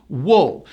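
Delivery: wool with a strong W; wool, firm W then falling. Shown as a demonstration. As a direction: say wool alone, pushing the W. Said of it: "with a strong W".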